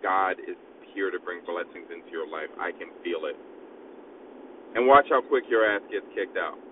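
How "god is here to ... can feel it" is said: lower, much softer, hushed holy-man voice; mock mystic preacher. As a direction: murmur the blessing like a spooky prophet in a bathrobe. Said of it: "just be like".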